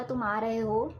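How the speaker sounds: easy, gentle question; relaxed and friendly asking; calm. Shown as a demonstration. Teacher repeats the calm example for students, gentle. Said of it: "मैंने बहुत ही आराम से बोला".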